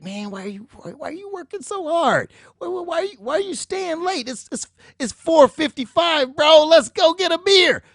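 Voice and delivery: high, loud bro voice urging a beer; mocking fellow intern. Intern teasing the hard worker, high and loud bro voice.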